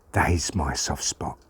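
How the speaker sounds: slow, low, soft voice; faint dying confession. Acted. Hurt Pa's message for his children, soft and slow. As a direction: let it sink gently and slowly.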